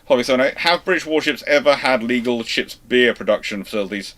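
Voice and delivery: ordinary talk, nothing marked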